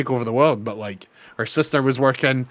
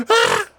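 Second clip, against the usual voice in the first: high loud mock scream; very high, louder mock scream; 6 dB louder than usual. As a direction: shriek it like the heroine in combat. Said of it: "always screaming".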